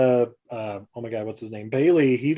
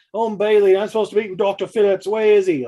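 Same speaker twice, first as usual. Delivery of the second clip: higher, breezy intro; chirpy stranger; 6 semitones higher, 4 dB louder than usual. Retold or imitated. Bailey explains he came for the doctor, breezy high voice. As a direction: introduce yourself like it's routine.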